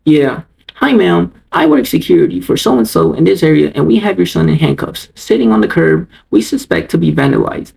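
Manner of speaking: lightly voiced official phone manner; security guard imitation. Guard phoning a boy's mom at night, mock official. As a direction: mimic a self-important guard reporting in.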